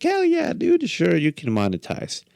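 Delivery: enthusiastic bro voice. Retold or imitated. They were just like.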